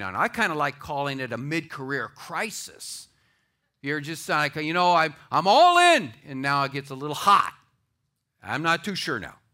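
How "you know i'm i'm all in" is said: gung-ho declaration. Acted. A believer pledging himself before it gets hot, gung-ho. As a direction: shout it out all keen.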